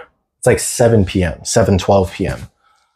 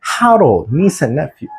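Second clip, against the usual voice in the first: higher, lightly put-on Uncle Roger accent; mock exasperated Uncle Roger accent; a hint of Uncle Roger's accent scolding Harold; Uncle Roger impression; 5 semitones higher than usual. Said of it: "Uncle Roger does".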